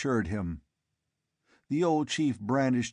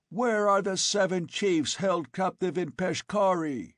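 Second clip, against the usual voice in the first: calling out; 9 semitones higher than usual. A narrator's reading. Conan shouting his question down to the men. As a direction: demand it down the canyon. Conan demands answers from the tribesmen.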